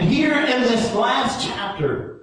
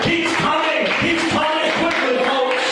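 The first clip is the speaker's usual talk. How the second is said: excited shout; 3 semitones higher than usual. Real, not acted. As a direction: lift it up in rejoicing. Preacher rising to a shout.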